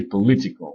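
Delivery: "political" with LI stressed; "political" said as po-LI-ti-cal; stress on second syllable. Shown as a demonstration. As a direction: punch LI in "political" after a weak first syllable. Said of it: "L'accent est sur la deuxième syllabe".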